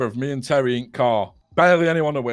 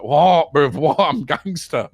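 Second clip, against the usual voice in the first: louder, indignant imitation of a friend; hammed-up defensive retort; mock defiance; 2 semitones higher, 3 dB louder, slower than usual. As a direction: act out a cocky comeback. Mocking friend's defensive reply.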